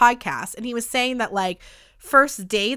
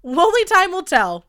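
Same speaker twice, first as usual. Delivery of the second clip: dramatic teaser; 5 semitones higher, 5 dB louder than usual. Acted. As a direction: drag it out like a suspense trailer. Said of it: "What a fun teaser".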